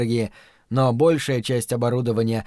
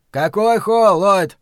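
distant shouting voice; shouted over a crackly line; through a tube; 6 semitones higher, 6 dB louder, slower than usual. A narrator's reading. Bad line, shouting back.

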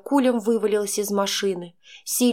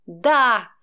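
angry crying; 2 semitones higher, 5 dB louder than usual. A narrator's reading. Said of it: "заорала я, захлёбываясь слезами".

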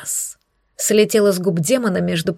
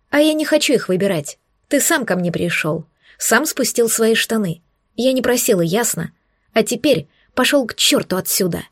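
angry. Acted. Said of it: "Рявкнула на Кореглазова".

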